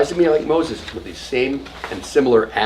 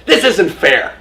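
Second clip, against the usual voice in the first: high, louder mock whine of a bar mitzvah kid; whiny kid protest; 7 semitones higher, 11 dB louder, slower than usual. Student complaining to the rabbi, mock whiny protest. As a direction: complain like a kid who finds it unfair.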